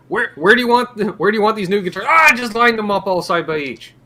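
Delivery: high French Canadian stock guy; a store worker in a light Quebec accent. Acted. Worker asking where guitars go, French Canadian accent. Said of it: "Tabernacle Jock in the back".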